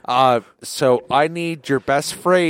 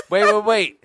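laughing; 4 semitones higher than usual. Real, not acted. Laughing burst.

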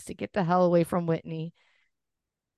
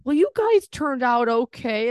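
quoting the dad; 6 semitones higher, 5 dB louder than usual. Retold or imitated. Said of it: "he's like".

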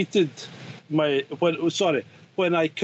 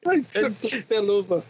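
mock excuse; 4 semitones higher than usual.

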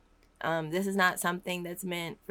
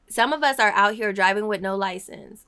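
louder, insistent, preached with force; emphatic preaching; 7 dB louder than usual. Acted. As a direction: hammer the line home like a preacher. Repeats the line with force.

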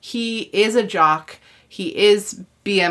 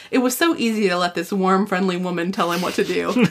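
quoting with a laugh breaking in; reading through laughter. Retold or imitated. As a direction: read it out, barely holding back a laugh. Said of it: "There's a line here that says".

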